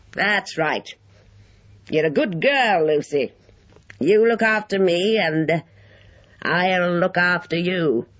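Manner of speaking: put-on high old man's voice, satisfied; approving, slightly wheedling old man; mollified old man. A narrator's reading. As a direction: praise the girl in a high elderly voice.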